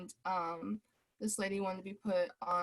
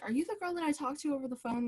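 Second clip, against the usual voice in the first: hopeful customer; 7 semitones higher, much faster than usual. Retold or imitated. Customer asks server.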